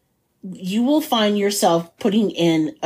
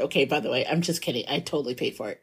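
quiet aside; 7 semitones lower, 8 dB quieter, much faster than usual. Real, not acted. Drops voice to confess.

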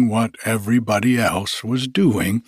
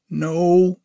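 high, louder snappy rabbit; 7 semitones higher, 3 dB louder than usual. Acted. Rabbit hiding in burrow, high snappy voice. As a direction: snap back from the burrow.

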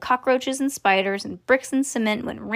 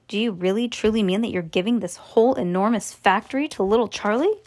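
usual speaking voice

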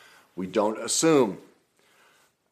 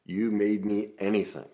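forbidden phrase. Shown as a demonstration. Coach reciting the phrase never to say, slow and dropping. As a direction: spell out the blaming line slowly. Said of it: "ever, ever say".

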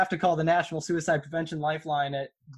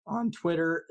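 voice crack; 2 semitones higher, slower than usual. Real, not acted. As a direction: voice cracking mid-phrase. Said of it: "Ugh, voice crack".

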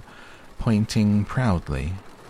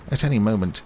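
higher, louder owl insisting on his point; insistent; 5 semitones higher, 6 dB louder, faster than usual. A narrator's reading. Owl trying to finish his announcement to Christopher Robin, insistent.

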